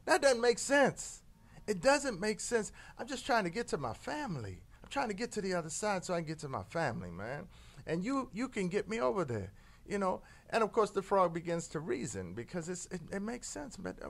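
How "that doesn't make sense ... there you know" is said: a hint of a pleading scorpion, rising to a shout. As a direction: coax the frog, then blurt out you'll die.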